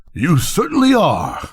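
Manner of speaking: a high, sharp comeback; mock retort. A narrator's reading. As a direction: toss the insult back lightly. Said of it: "cried the Bengal light".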